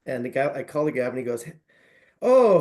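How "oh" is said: loud, high "oh" of recognition; retold burst of recognition; hearty phone greeting. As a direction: imitate someone delighted by who's calling. Imitating man answering the phone.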